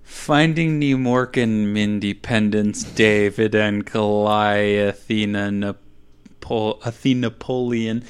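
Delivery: rushing the whole chain without breathing; all in one breath. Real, not acted. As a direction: race through on a single breath. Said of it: "get hard to say in one breath".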